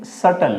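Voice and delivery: सटल said as "suttle" with no b sound; silent b. Shown as a demonstration. Teacher showing students the silent b, carefully pronounced. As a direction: say सटल cleanly and drop the b. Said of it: "बोलेंगे".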